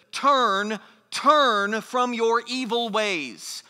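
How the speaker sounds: loud, slow, drawn-out plea; begging. Acted. Preacher voices God begging humanity to turn, pleading. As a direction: implore them, leaning on each "turn". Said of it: "God is begging humanity".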